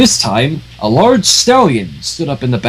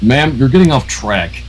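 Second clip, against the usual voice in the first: annoyed; 2 semitones lower than usual. Acted. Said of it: "annoyance in his voice".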